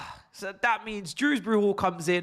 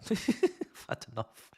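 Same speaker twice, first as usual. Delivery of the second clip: laughing; 5 dB quieter, slower than usual. Real, not acted. Laughs at own despair.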